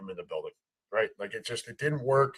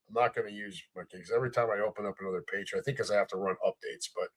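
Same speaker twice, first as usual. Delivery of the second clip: heavy breathing; 7 semitones lower, 10 dB quieter, faster than usual. Real, not acted. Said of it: "sorry for the heavy breathing".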